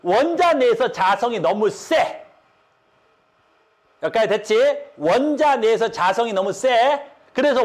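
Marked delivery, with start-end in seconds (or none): 0.0-2.2 slowed down, each word spelled out for students; slow emphatic repeat. Shown as a demonstration. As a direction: say 원자 내에서 자성이 너무 세 slowly, stressing 원자. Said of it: "이걸 굉장히 어려워하더라고요".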